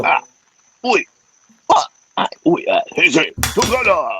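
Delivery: grunts and cries of a fight; mock punches and yells; fight sound effects. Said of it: "we need you to make the sound effects".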